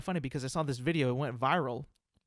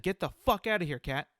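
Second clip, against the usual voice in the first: mild mock yell at a cat; 4 semitones higher than usual. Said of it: "and I said".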